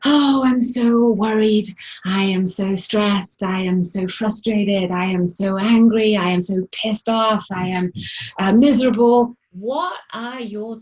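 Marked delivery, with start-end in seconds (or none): 0.1-9.3 negative self-talk. Acted. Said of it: "Do you say".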